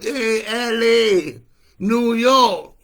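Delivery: high, loud yelled taunt at the cities; raging high yell that builds to a roar; furious shout. Real, not acted. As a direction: scream it out across the country. Yelling at US cities in rant.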